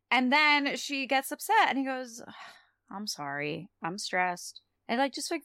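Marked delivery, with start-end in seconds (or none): 2.9-4.6 low, soft retold apology; apologetic. Spike apologizing after Drusilla gets upset, softly contrite. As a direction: drop low and quiet to apologize. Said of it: "very quickly apologizes".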